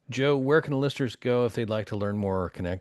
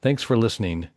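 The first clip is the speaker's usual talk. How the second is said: podcast host sign-off; 5 dB louder than usual. Real, not acted. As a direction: sign off the show to the listeners.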